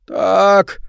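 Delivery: high, loud rasping ghoul voice; eldritch rasp. A narrator's reading. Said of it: "хрипит голодный".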